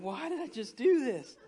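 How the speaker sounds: rueful laughing quote; laughing regret. Retold or imitated. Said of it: "I'm going".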